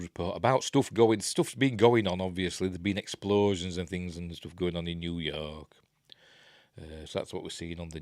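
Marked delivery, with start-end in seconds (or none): 2.7-5.7 hushed whispered aside. Real, not acted. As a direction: whisper it under your breath.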